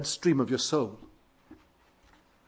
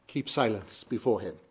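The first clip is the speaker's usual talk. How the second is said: "keep silence before him" dropped low and soft; unstressed remainder; 6 semitones lower, 7 dB quieter than usual. Shown as a demonstration. Preacher closing an emphasis demo, "keep silence before him" low and soft. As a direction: let "keep silence before him" fall away quietly. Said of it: "put an emphasis on different words".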